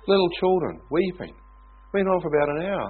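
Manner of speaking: a touch of excited awe; stirred telling. Real, not acted. Describing revival with emotion.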